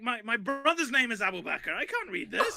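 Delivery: lightly voiced panicky pleading; pleading refusal. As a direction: beg to be let off, voice climbing. Notable refusing to curse.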